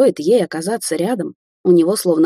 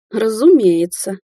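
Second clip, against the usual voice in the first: indifferent; 4 semitones higher, 4 dB louder, slower than usual. Acted. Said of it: "безразлично отмахнулась Кварц".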